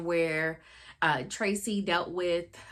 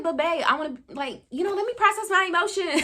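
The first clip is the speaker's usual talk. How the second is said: mock whiny plea; 9 semitones higher, faster than usual. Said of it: "And I'd be like".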